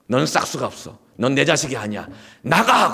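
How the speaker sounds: retold scolding rising to a high, loud "get out"; acted angry mother. Mother throwing out her lying child, acted angry scolding. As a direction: build from stern rebuke to a shouted dismissal. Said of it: "그러면서 어머니가 이렇게 얘기하시는 거예요".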